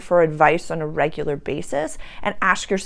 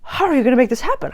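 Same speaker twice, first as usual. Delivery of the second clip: mock incredulous question; 7 semitones higher, 5 dB louder, much faster than usual. Retold challenge question.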